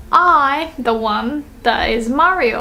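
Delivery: slow, with "I'm" drawn out; teacher's emphatic "I'm"; stress on I'm. Shown as a demonstration. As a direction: put the weight on "I'm". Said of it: "So he wants to say".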